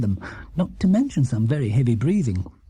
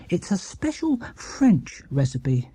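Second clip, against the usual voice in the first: Paddington explaining; 4 semitones higher, slower than usual. Acted. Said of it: "he explained".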